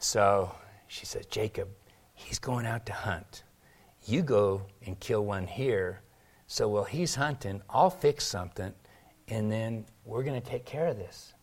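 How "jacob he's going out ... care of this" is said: hushed, partly whispered plotting; conspiratorial hush. Retold or imitated. Mother plotting with Jacob against Esau, hushed.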